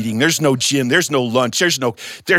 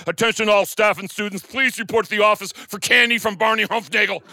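over the intercom; 6 semitones higher than usual. Acted. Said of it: "He runs to the microphone".

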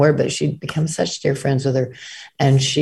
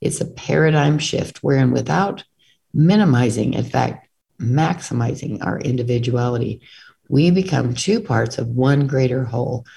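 book reading. A narrator's reading. Reads passage from own book.

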